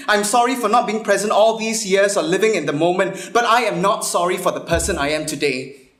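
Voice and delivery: a defensive, building tirade; indignant non-apology. Acted. Woman answering a friend who called her uptight, indignant. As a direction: push through each sorry without apologising.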